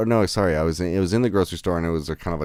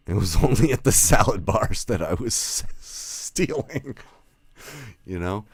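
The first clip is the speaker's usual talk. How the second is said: laughing through it; 6 semitones higher, slower than usual. Real, not acted.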